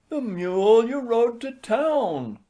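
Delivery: high, slow patient wife. A narrator's reading. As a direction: say it slowly, patiently. Wife voiced in story.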